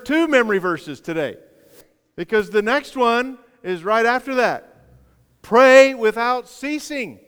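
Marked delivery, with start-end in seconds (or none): 5.4-7.2 proclaimed. Acted. Pastor proclaims new verse.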